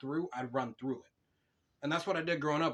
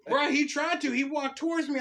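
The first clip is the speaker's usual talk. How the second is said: higher, louder, excited retelling; 13 semitones higher, 7 dB louder than usual. Real, not acted. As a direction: tell it all worked up.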